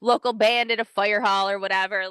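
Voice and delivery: high, fast airy mock voice; breezy imitation of a casual concertgoer; lightly voiced casual fan; mimicking some people. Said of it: "some people are like".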